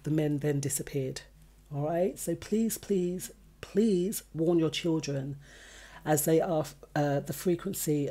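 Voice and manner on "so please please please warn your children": drawn-out, repeated "please", the last one longest; earnest plea. Real, not acted. Presenter appeals to parents after attempted abductions, earnest plea. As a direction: plead with weight on each "please".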